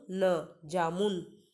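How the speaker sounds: जामुन read very slowly, syllable by syllable. Shown as a demonstration. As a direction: sound out जामुन slowly for children. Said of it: "मेरे साथ दोहराएंगे". (जामुन को धीरे-धीरे अक्षर-अक्षर पढ़ना)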